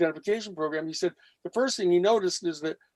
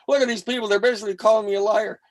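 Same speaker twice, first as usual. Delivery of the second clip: pissed off; 4 semitones higher, 4 dB louder, faster than usual. Retold or imitated. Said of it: "he was all pissed off".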